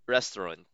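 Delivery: "restaurant" said RES-trən, English style; English "restaurant", RES-trən, falling. Shown as a demonstration. Teacher giving learners the English "restaurant" for contrast. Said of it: "Sa English".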